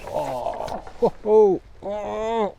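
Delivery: high excited oh ho ho; real surprised delight as the fish hits; excited exclaiming. Real, not acted.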